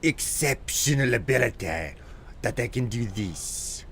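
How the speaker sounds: lightly voiced boy genius accent; a hint of Dexter's clipped accent. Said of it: "let's see how good I can get at it".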